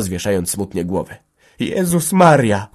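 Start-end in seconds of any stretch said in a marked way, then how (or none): 1.6-2.7 high, slow, loud wail; frightened cry. A narrator's reading. Hanka hearing gendarmes are coming, high distressed cry. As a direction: cry out in dismay. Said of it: "krzyknęła Hanka".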